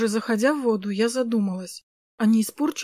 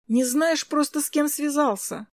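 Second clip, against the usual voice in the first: playful grumble; 5 semitones higher than usual. Acted. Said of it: "проворчала я".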